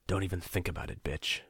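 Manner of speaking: soft, weary threat; a tired captor warns her off, quiet and weary; tired low warning. Acted. Captor nudging his captive, tired soft warning. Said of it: "his voice tired".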